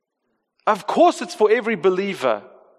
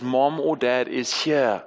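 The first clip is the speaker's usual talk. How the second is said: gentle parent at the bedside; soothing parent; 3 semitones lower, slower than usual. Retold or imitated. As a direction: hush a frightened kid back to calm. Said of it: "what Kate and I most often say".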